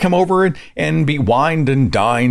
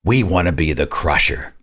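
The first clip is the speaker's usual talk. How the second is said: grateful mock; 4 semitones higher than usual. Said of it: "those being crushed are like".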